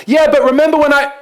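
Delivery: high, loud pleading objection; anxious objection cut off mid-sentence; protesting. Pretend. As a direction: whine out the excuse. Imagined objections, brushed off.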